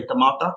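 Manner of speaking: "tomato" as tuh-MAH-tuh, short final vowel; Hindi pronunciation. Shown as a demonstration. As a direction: say "tomato" the Hindi way, ending on a short "uh" with rising tune. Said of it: "I think Hindi speakers say".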